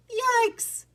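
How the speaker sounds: high, loud storybook cries of alarm; panicked alarm. A narrator's reading. Rat Pack fleeing grinning bear Boris, panicked alarm. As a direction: act out terrified rats shrieking at a bear.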